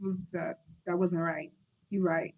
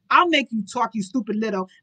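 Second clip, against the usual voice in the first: angry; 5 dB louder than usual. Acted. Duke threatens his son.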